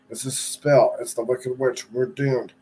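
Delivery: mild shout. Acted. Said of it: "The Scarecrow shouted".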